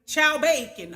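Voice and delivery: playful mock French accent. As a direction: put on a light French accent. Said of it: "I've been using my French voice".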